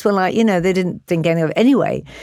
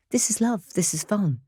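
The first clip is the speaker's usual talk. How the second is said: soft, gently voiced child's view; quiet, innocent sincerity; simple tenderness; 4 semitones higher, 6 dB quieter than usual. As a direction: say it softly, as a child sees it.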